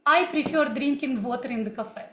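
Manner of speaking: English in a Russian accent. Shown as a demonstration. Teacher testing chat viewers with a sample sentence, Russian accent. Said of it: "I was also speaking in this way".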